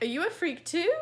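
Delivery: teasing imitation of the bully; imitating the bully. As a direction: ham up the bully's taunt. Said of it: "He was like".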